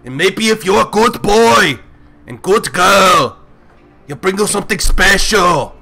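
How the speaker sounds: lightly voiced Arnold coaching the party. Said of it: "I really wanna do the voice".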